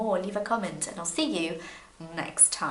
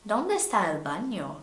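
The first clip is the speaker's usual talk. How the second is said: put-on silly Spanish accent; 3 semitones higher than usual. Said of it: "I sound silly".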